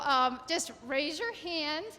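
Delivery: slow, firm principal voice; teacher voice. Shown as a demonstration. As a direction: address the class like a principal. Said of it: "That's my teacher voice and my principal voice".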